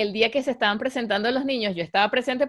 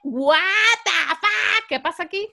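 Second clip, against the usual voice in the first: much higher, louder startled outburst; shocked yell; 7 semitones higher, 7 dB louder than usual. Retold or imitated. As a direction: blurt out in disbelief. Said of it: "este grito lo voy a editar". (grito de sorpresa indignada)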